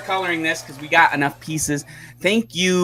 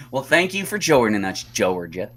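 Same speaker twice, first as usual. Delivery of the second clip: put-on Southern accent; 3 semitones lower than usual. Host thanking viewer Georgia for joining, Southern accent. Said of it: "doing a Southern accent".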